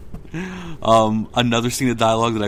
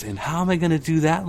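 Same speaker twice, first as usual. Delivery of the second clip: taunting read-out; 7 semitones higher than usual. Retold or imitated. Reads teacher's taunt aloud.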